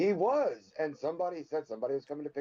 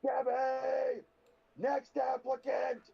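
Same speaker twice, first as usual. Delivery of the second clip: high, drawn-out summons; calling out; 10 semitones higher, much slower than usual. Acted. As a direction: call the next one in, pitched high and stretched. Calling out for the next applicant.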